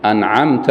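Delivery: أنعمت ending in -ta, addressing the Lord; correct anʕamta. Shown as a demonstration. Teacher giving the correct reading of أنعمت. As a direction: end أنعمت with fatha. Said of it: "فنحن نقول".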